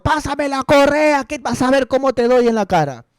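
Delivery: hammed-up mom threatening the younger son with the belt; mujer amenazando al hijo. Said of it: "Al hijo menor". (imitando a una madre amenazante, muy aguda)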